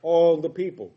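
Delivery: "all" leaned on, falling; stress on all. Shown as a demonstration. Preacher stressing "all" to the congregation. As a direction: hit "all" hard and let it fall. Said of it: "I want to stress the word here".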